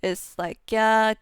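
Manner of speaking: normal talking voice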